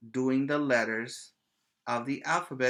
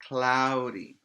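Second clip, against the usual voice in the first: emphatic answer; 4 dB louder than usual. Shown as a demonstration. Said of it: "It's what?".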